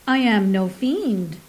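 slow, earnest "I am no fiend", trying hard to be believed; striving for sincerity. Acted. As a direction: plead your honesty, slowly. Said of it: "striving to put sincerity into his voice".

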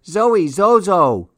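put-on high, slow toddler scolding; baby scolding. A narrator's reading. Baby Louie scolding the sky for no snow, slow and high. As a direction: wag a finger at the sky like a toddler. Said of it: "Louie scolded the sky".

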